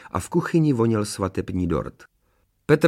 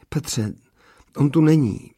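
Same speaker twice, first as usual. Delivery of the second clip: blurted unhappily; 5 semitones higher than usual. A narrator's reading. Bride back from the corridor to groom, unhappily blurting. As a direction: burst out with the bad news. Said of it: "vyhrkla nešťastně".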